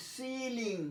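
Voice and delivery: সিলিং with a long ee in the first syllable. Shown as a demonstration. Teacher showing the long i, সিলিং with a held see. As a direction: hold the ee of সিলিং. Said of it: "দীর্ঘ ই উচ্চারণ".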